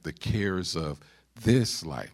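pause, then punch "this" in "this life"; stress on "this". Shown as a demonstration. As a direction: lean on "this", letting "life" drop. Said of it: "Let me put the emphasis".

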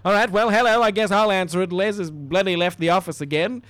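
brash receptionist answering the phone; put-on receptionist. Receptionist grumbles that Les left the office again, brashly.

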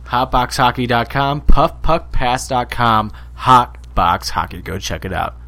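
ad read. Acted. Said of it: "read us this ad".

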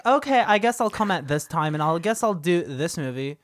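put-on a light Valley girl lilt; lightly voiced Valley girl. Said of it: "she's turning into a Valley girl".

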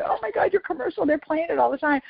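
high, gushing retold excitement; excited friend. Flight attendant friend raving about her commercial, high mock excitement. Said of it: "he said".

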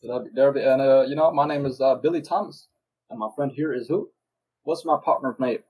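put-on American southern voice; southern race caller opening the show; southern accent. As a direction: commentate in a mock southern accent. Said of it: "let's switch to a southern accent".

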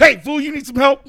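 high, bright mock-friendly offer; mock polite high voice. Drunk guy offers help to a tweaker, mock polite. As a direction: put on a high sweet voice to a stranger. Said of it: "I was like".

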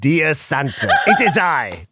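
lightly voiced spooky skeleton; a hint of a theatrical ghoul. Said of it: "Doctor Ichabod Spooky von Wolf Howlington".

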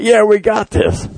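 high, drawn-out mock hype; lightly hammed-up team enthusiasm; imitated pumped-up player. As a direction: act fired up without raising the volume. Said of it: "get you pumped up".

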